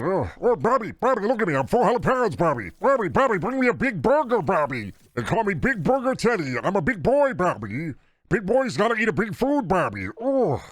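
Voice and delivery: a panicked high-pitched character pleading with Bobby; Deca voice. Acted. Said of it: "Deca voice is the real best voice".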